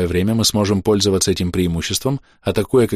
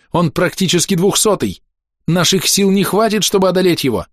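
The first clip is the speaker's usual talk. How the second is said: breaking down angrily; 9 semitones higher than usual. Acted. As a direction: snap and plead at once. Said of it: "Биара сорвалась".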